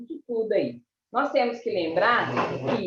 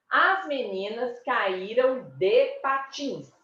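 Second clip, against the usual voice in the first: slow, measured "As meninas caíram de patins", stress on the Í; example sentence; 2 semitones higher than usual. Shown as a demonstration. Teacher giving a past-tense example, deliberate stress. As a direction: spell it out slowly, "caíram" stressed before the ending. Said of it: "você vai falar assim".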